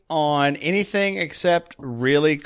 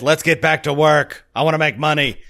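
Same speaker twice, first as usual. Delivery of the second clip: lightly put-on Irish accent; slowed, half-hearted Irish impersonation; mock Irish accent. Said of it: "in his Irish accent".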